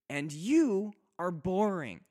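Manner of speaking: teasing wife. Acted.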